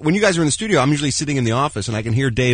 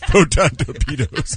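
slow mock battle command; Lieutenant Sulu; slower than usual. Cohost mocking the producer with battle orders, slow officer voice. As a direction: draw it out like a bridge officer. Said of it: "white business language is Sulu".

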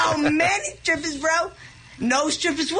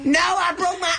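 yelling. Real, not acted. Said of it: "No more yelling".

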